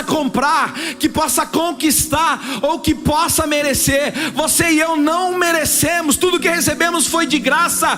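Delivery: preaching at full force. Acted. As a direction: drive it home to the congregation, full voice.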